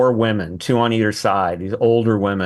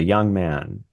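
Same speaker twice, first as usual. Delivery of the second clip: gravely imitating a stern mentor; measured orders with pauses between phrases; very serious. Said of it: "he says to me very seriously".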